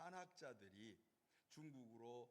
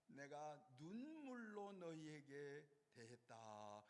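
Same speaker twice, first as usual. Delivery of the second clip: tearful quote; slower than usual. Retold or imitated. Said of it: "그렇게 표현하고 있어요".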